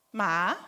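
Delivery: "Ma" low, then lifting upward; Thai tone demo. Shown as a demonstration. Teaching the Thai word for horse, rising "Ma". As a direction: let "Ma" climb from a low start. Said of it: "Vocês perceberam a diferença".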